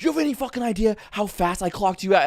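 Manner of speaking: high-pitched mock cop yell; yelling angry cop. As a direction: imitate an officer chewing out a speeder. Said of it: "He's, like, yelling at me".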